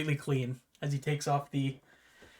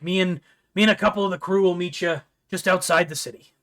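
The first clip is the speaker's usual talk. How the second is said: put-on pirate accent, slightly louder; 4 dB louder than usual. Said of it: "I did a pirate voice".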